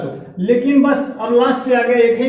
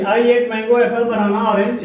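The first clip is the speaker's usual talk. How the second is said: words run together without pauses; run-on read; much slower than usual. Shown as a demonstration. Teacher shows rushing through the commas. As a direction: rush the list, no stops at the commas. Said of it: "ये सारे चीज़ ऐसे नहीं पढ़ेंगे".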